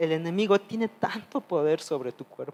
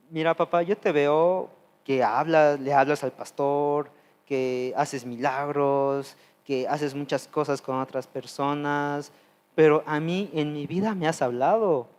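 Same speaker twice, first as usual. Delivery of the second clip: a complaint flung at heaven. Retold or imitated. Complaining to God, feeling ignored.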